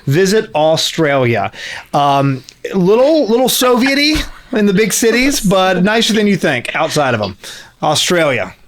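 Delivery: lightly put-on tourism commercial voice; mock ad read. Host fakes a tourism board spot, mock ad read. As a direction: pitch it like a hokey travel ad.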